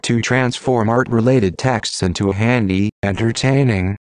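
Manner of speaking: robotic text-to-speech voice. Real, not acted. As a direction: read it like a computer voice. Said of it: "using a computer-generated voice".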